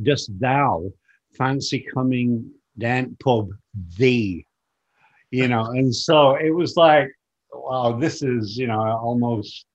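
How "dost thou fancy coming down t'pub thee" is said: Yorkshire "Dost thou" phrase in separated chunks; biblical Yorkshire, spelt out. Shown as a demonstration. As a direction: set "thee" apart after a pause, like old scripture. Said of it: "when I said biblical".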